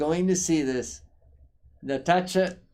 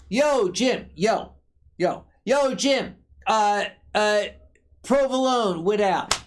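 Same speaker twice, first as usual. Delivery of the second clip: Philly order call. Retold or imitated. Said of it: "and I go".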